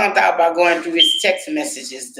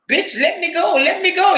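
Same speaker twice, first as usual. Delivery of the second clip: voicing the dog; 12 semitones higher than usual. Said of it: "That dog was just like".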